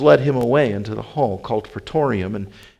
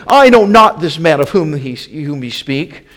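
loud, raised, vehement denial; swearing denial; 3 semitones higher, 7 dB louder than usual. A narrator's reading. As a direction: swear it forcefully, voice lifted. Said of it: "he began to curse and to swear".

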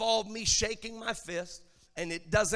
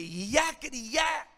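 lightly voiced little voice, higher and drawn out; little piping voice; 4 semitones higher than usual. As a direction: pipe up slowly as a cheeky song line. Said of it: "hear this little voice pipe up and say".

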